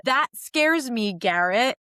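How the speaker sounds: slow, with weight on "scares"; emphatic quote. Retold or imitated. Quoting Hannah to Garrett, slow with stress on "scares". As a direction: drag out "scares" in "That scares me". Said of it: "She said".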